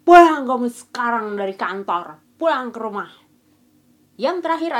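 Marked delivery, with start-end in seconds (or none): 0.0-3.1 acted parent's shout, loudest at the start; orang tua berteriak. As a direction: bark an order like an angry parent on the phone, then ease off. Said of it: "tiba-tiba telepon sambil teriak". (orang tua pura-pura berteriak menyuruh pulang)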